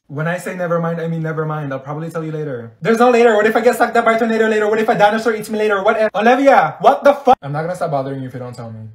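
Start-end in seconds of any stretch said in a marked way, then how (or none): 2.8-7.4 high-pitched worked-up rant; hammed-up impatient outburst; frantic exasperation. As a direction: pile up protests, high and urgent. Frantic demand to be told.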